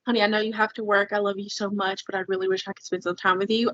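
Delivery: quick, soft loving request; calm. Retold or imitated. Wife imagining telling husband she misses him, calm. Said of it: "being calm and just saying".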